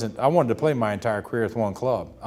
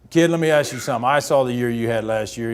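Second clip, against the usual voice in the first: louder big-man address; boastful; 4 dB louder than usual. Retold or imitated. Ted Williams sizing up a rookie before his buddies, boastful. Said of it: "He's gonna boast a little bit in front of all of his buddies".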